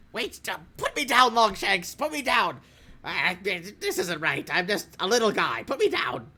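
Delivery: high, frantic pleading little guy; panicked begging. Acted. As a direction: beg to be put down. Captured goblin begs to be released.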